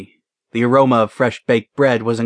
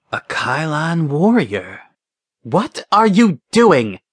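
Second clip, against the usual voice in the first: commanding woman; 5 semitones higher, slower than usual. A narrator's reading. Commander confronts executioner.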